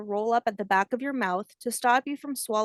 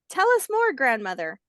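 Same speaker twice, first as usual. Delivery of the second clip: eager hatchling; 3 semitones higher, 4 dB louder than usual. Acted. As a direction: beg for more like an eager child. Hatchling begs for more.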